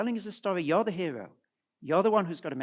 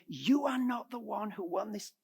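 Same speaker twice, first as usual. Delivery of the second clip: higher, insistent declaration; insistent Paul; 4 semitones higher, 3 dB quieter than usual. Acted. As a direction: press the point home. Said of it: "Paul is going out of his way".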